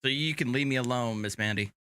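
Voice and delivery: lightly put-on Texas Southern accent; a hint of Southern accent. Shown as a demonstration. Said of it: "I can bring it back".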